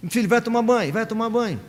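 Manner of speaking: mother repeating the order without force; nagging mother. Retold or imitated. Wife telling her son to bathe, a mild routine nag. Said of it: "E a esposa fala pro filho".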